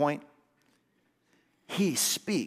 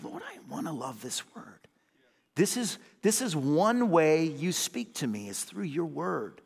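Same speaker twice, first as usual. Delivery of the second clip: hushed prayer. Retold or imitated. Praying voice in a retold moment.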